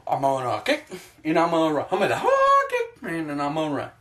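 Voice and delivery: dopey fighter boasting, squeaking up on hard; silly mock brag with a laugh on hard. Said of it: "it's just like".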